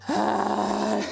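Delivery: drawn-out groan of aching muscles; pained groan. Real, not acted. Streamer sore after fifty jumping jacks, pained groan.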